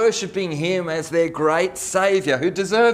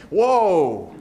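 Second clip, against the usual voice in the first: amazed whoa; 2 semitones higher, 4 dB louder than usual. Real, not acted. Amazed exclamation after reading.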